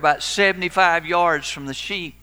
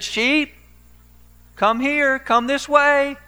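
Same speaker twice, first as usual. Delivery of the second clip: much higher, louder, slow shout; loud calling out; 12 semitones higher, 8 dB louder, slower than usual. Retold or imitated. Pastor straining to call distant sheep, loud high shout. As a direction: bellow it across the pasture. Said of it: "You need to say that a little louder".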